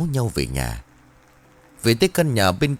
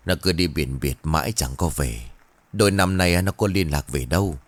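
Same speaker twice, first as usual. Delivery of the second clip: mournful; 4 semitones lower than usual. Acted. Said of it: "âu sầu".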